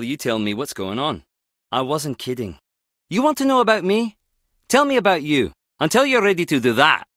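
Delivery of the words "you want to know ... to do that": higher, confrontational demand; pushy, irritated insistence; heated challenge. Acted. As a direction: throw the question back at them. Acted confrontation, demanding answers.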